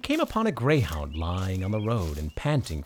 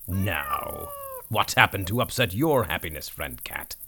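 put-on kindly old donkey. The donkey questions the cat.

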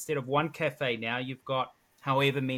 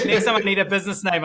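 laughing, louder and higher; 6 semitones higher, 10 dB louder than usual. Real, not acted. Host laughs, joking.

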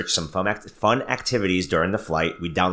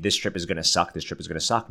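mock gloomy; 2 semitones lower, 5 dB quieter, faster than usual. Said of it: "I was saying".

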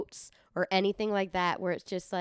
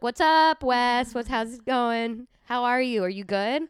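casual, louder grown-up greeting; talking like to an adult; 3 semitones higher, 4 dB louder than usual. Acted. Aunt greeting her nephew, casual adult-to-adult tone. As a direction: greet a small kid like a buddy. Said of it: "that's how I talk to my nieces and nephews".

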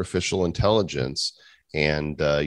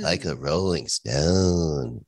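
slow, drawn-out robot singer line; singer bot voice; 2 semitones lower, slower than usual. Pretend. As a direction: croon it like a bad song bot.

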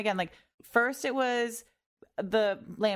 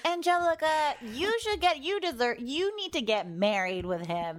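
put-on drunk girl; 4 semitones higher than usual. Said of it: "I was the drunk girl being like".

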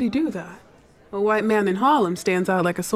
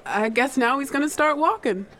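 amused chuckle; 3 semitones higher than usual. Real, not acted. Bodyguard watching Garvey, amused.

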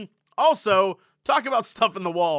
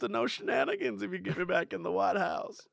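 softer, husky mock-politician promise; Bill Clinton impression; 5 dB quieter than usual. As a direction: lightly imitate a rascally ex-president. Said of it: "Oh, Bill Clinton".

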